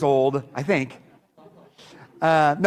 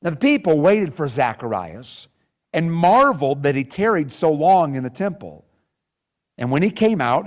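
measured, emphatic Bible reading; scripture reading. Acted. Preacher reads Zacharias's story to the congregation, scripture reading. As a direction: read scripture aloud with deliberate phrasing.

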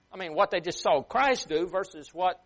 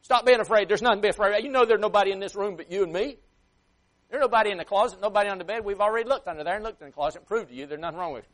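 loud, raised fed-up scolding, easing toward the end; exasperated parent; 4 semitones higher, 6 dB louder, faster than usual. Acted. Parent to child scared at bedtime, loudly exasperated. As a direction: reason firmly with a child, patience run out. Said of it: "and then after a while you say".

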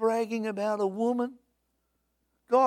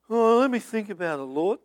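mock reluctant reply; 4 dB louder than usual. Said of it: "reluctant answer to God".

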